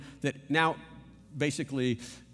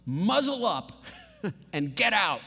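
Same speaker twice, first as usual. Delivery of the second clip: commanding Jesus. Acted. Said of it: "One translation says".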